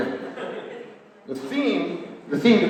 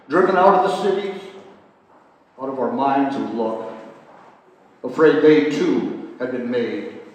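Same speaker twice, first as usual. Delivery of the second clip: poem reading. Acted. Poet reading his love-generation poem to the audience, measured. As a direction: let each line land, pausing between phrases.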